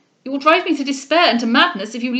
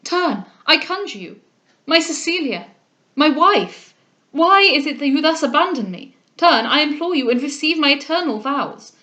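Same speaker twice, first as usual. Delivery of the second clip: higher, impassioned pleading; vehement; 4 semitones higher, 6 dB louder than usual. A narrator's reading. Groom begs his departing bride to turn back, vehement. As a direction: implore her urgently, voice raised. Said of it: "cried Delvile with vehemence".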